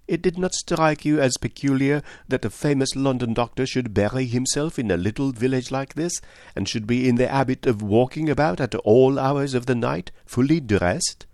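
put-on accented detective, pitched a little high; lightly voiced Poirot. Poirot asking whether the doctor seemed peculiar, detective voice. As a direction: question him as the patient, knowing detective.

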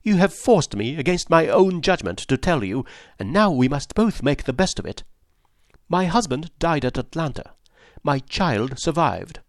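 lightly voiced wife, resigned but proud.

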